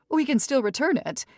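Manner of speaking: shrill-pitched society mother; fussy matriarch. Acted. Mrs Evers voice.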